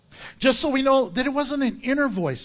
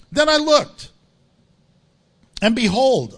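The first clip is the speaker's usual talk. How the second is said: scripture reading; 4 dB louder than usual. Real, not acted. Preacher reads John's vision to the church, declaimed scripture reading. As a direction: proclaim the vision phrase by phrase.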